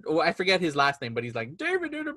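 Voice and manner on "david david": Muppet-like voice. Retold or imitated. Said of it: "he sounds like a Muppet".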